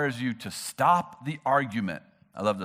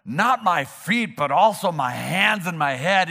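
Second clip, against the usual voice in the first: eager Peter; 2 semitones higher, 6 dB louder, slower than usual. Retold or imitated. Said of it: "Simon Peter said to him".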